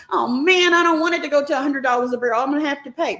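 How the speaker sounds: playful jab at a griping consumer; complaining consumer. Retold or imitated. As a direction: imitate a grumbling consumer, rushed and fretful. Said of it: "That's what the consumer says".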